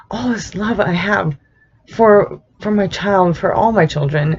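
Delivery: tearful, voice catching on the words; crying. Real, not acted. Mother choking up talking about her son.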